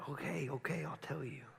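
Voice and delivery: soft, worn-down surrender, acted; giving in. Samson to his crying bride, softly giving in. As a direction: give in quietly, imitating a beaten husband.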